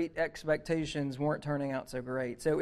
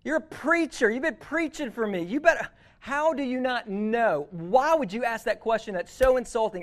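loud and much higher, mock outraged scolding; angry scolding; 6 semitones higher, 3 dB louder than usual. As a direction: scold him as if he were a fool. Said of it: "by not getting angry".

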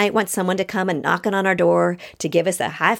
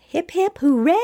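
cheer; 9 semitones higher than usual. Pretend. Cheering herself on while reading.

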